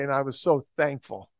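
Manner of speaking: ordinary talk, nothing marked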